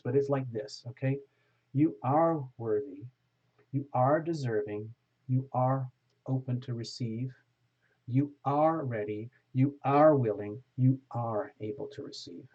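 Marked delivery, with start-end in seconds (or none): 1.7-12.5 firm, commanding but kind; firm affirmation. Shown as a demonstration. Tarot reader speaks the affirmation to the viewer, firm and kind. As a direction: tell them they are worthy, no doubt. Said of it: "sounds like I'm being mean ... but it's like this".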